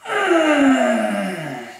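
strained angry groan. Shown as a demonstration. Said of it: "like an angry cholo".

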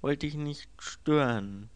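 gehobene, langsame Figurenstimme. A narrator's reading. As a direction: als Figur sprechen, langsam. Figurenrede im Hörbuch. (leicht verstellte Figurenstimme)

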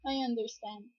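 sigh, then softly resigned. Acted. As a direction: let it go with a soft, sad acceptance. Sighs, then accepts being left.

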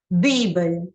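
Дибає with the stress on ДИ, the first syllable; teacher modelling the stress in Дибає; stress shown. Shown as a demonstration. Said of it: "зверніть увагу на наголос".

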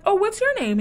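high, chirpy imitation of Chelsea; mock bubbly girl. Mimicking Chelsea asking Trevor's name, high and giddy. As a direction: squeak it out like an excited girl.

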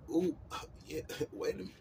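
laughing through the words. Real, not acted. Welcoming his friends and enemies, laughing.

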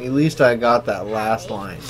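slow, mocking; mocking drunk quote. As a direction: drag it out like a drunk. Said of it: "That's what everyone who goes on intervention says".

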